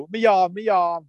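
mock group refusal. Retold group refusal, stirred up.

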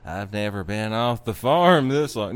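a hint of a talking cow, pitched low; cow character. Host quoting the runaway cow, lightly voiced. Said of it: "and the cow's like".

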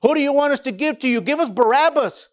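Pilate's question then the crowd's demand, hurried; crowd demands Barabbas. Retold or imitated.

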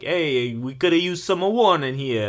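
put-on light Turkish accent on the quote. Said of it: "That was a perfect Turkish accent".

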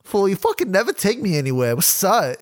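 girlfriend imitated in a hammed-up Mexican accent; bad Mexican accent. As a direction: do a clumsy Mexican-accented woman. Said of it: "that was a horrible, horrible Mexican accent".

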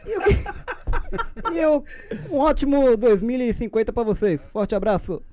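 lightly voiced president speech; a hint of a folksy politician; Bolsonaro impression. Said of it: "Bolsonaro vai morrer".

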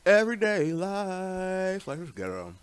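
talking around ice cubes; words mumbled past a mouthful of ice. Real, not acted. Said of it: "I have ice in my mouth".

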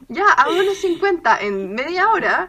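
laughing while saying it. Real, not acted. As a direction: laugh at yourself as you say it. Laughs at own laziness. (riéndose de sí misma)

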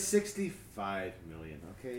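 low, slow monster rumble; dinosaur voice. Retold or imitated. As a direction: growl it like an old dinosaur. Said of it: "talk like a dinosaur".

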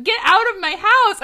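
high, loud outburst; hammed-up angry yell. A narrator's reading. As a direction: yell it high with a laugh close behind. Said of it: "I yell".

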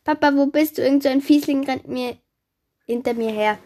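put-on high, loud girl's cry for Papa; calling for help. A narrator's reading. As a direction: cry out while being chased. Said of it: "da rief sie". (lauter, hoher Hilferuf)

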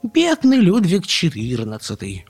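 high, slow pitying squeak; drawn-out piping commiseration; exclaiming chick. A narrator's reading. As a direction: cry out in sympathy like a little chick. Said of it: "воскликнула тут-то Карлсон".

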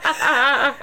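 bellow. Shown as a demonstration. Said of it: "I bellow".

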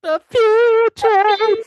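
very slow, high, loud robot voice. Retold or imitated. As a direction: stretch it out like a robot. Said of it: "he goes robot voice and says".

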